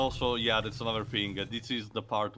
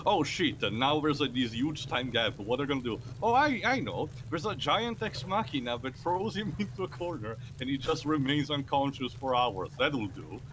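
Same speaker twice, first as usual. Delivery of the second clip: mocking the writers; 4 semitones higher than usual.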